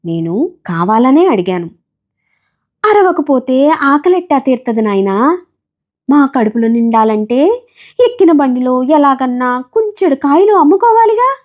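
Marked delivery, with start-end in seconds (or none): 2.9-11.4 higher voice with a resigned weight; weary resignation. Acted. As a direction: answer like life leaves no choice. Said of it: "ఆమె నిర్వేదంగా అంది". (ఎత్తైన స్వరంలో నిర్వేదంగా)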